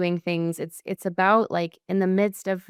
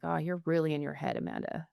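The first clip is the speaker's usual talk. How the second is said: gentle friend; 3 semitones lower, 9 dB quieter than usual. Retold or imitated. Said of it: "he says it in such a, loving and compassionate way".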